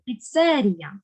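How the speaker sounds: Піцерія stressed on ЦЕ; stress on second syllable. Shown as a demonstration. Teacher models correct Піцерія, stressed on second syllable. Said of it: "маємо наголос на другий склад".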